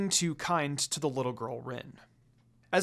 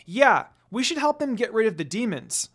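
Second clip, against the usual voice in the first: put-on high, loud eager child; excited exclaim; 6 semitones higher, 6 dB louder than usual. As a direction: exclaim it brightly like a keen little girl. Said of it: "Rin exclaimed excitedly".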